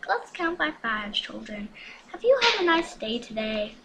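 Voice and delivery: a hint of Elmo. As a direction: talk like Elmo to little children. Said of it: "Welcome to Elmo's world".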